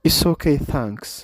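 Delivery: polite refusal, okay stressed. Shown as a demonstration. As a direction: push okay, let thanks fade. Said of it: "thanks ብደገ ገይርዋ".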